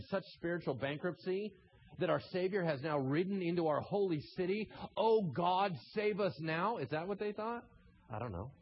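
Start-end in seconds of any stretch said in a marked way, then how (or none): 5.0-6.8 pleading cry. Acted. Voicing the crowd's plea.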